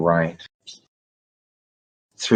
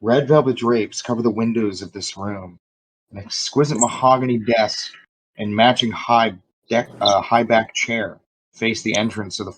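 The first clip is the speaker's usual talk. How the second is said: game master narration; 3 semitones higher than usual. Acted. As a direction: paint the room for the players. GM scene narration.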